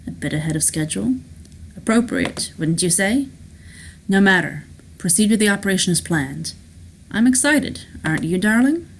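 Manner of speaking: composed, then brighter with eager anticipation; lightly voiced boss pleased with his plan; self-assured schemer Rourke. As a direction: relish it, lifting at the end.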